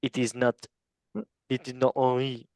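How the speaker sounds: put-on half-hearted French accent on the name; bad French accent. Quiz host breaking bad news to player, bad French accent. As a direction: lightly attempt a clumsy French accent. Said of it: "that's bad French accent".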